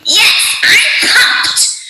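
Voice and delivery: high, hyped game-character yell; Raze. Acted. Host performs a subscriber's Valorant line, high excited shout. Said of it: "Ray's voice line from Valorant. She's Brazilian".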